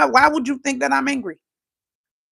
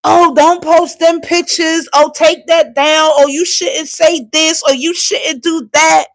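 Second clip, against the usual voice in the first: mock nagging; 3 semitones higher than usual. Mimics critics' scolding.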